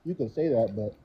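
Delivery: muffled, like through a wall; muffled mic. Real, not acted. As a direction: voice dulled by a bad mic. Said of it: "it still does sound like it's muffled".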